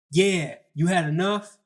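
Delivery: mock him as if you've won; acted taunt. Acted taunt to pinned opponent.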